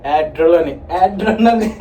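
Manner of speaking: "Adrenaline" tried as AD-ro-la-nee; pronunciation attempt. Shown as a demonstration. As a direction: fumble "Adrenaline" with a heavy first AD. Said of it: "I don't know how to pron".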